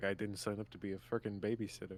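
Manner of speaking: barely audible, very quiet grumbled mutter under breath. A game master voices Chuck as Sora follows the group, muttering. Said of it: "Chuck is just muttering like".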